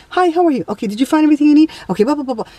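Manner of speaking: breezy hammed-up checkout small talk; mock cheery cashier. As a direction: rattle off friendly clerk greetings. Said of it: "You just".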